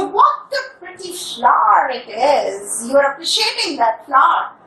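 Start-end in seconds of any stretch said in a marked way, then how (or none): 0.0-2.9 mild admiring exclamation. Shown as a demonstration. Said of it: "then you say".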